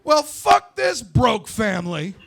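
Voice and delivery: put-on slow, drawn-out childish yell; bratty kid blurting it loud in the store; slow, sing-song yell of a six-year-old. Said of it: "yell out".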